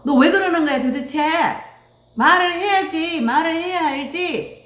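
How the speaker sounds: high, loud imitated parental nagging; exasperated scolding. Parent ignoring the child's feelings, exasperated scolding. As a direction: demand an answer in mock exasperation.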